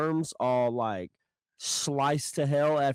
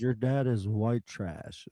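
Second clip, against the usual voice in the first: Dudley's voice; 3 semitones lower, slower than usual. Retold or imitated. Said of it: "it says".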